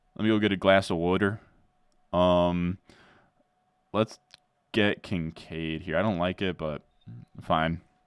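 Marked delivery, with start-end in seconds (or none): 0.2-1.4 put-on Delco accent, faster. You guess how a man with this accent probably says water, imitating a Delco accent. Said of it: "he probably says water".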